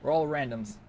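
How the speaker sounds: hammed-up mockery of cocky survivors; mock cocky gloating. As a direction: sneer it out like a smug teammate showing off. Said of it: "they're being cocky is like".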